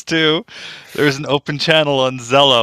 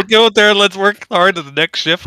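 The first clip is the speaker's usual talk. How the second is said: hockey coach voice; 7 semitones higher, 3 dB louder than usual. Retold or imitated. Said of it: "hockey talk in it".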